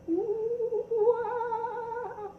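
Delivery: high hooting ooh-ah bird cries; a grandpa's high bird whoops for the little ones; kookaburra call. Retold or imitated. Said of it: "that's what they do".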